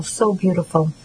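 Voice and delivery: a touch of a choke on the words, understated; voice choking. A narrator's reading. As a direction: let the voice catch on the last word, lightly. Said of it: "His voice choked".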